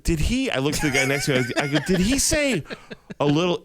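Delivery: high, laughing disbelief; disbelieving. Retold or imitated. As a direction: ask it high in shock, half laughing. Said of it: "I was like".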